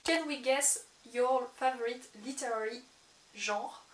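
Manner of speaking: slow, careful English with a French accent. Real, not acted. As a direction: read out English slowly in your own French accent. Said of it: "mon accent anglais". (anglais avec l'accent français, lentement)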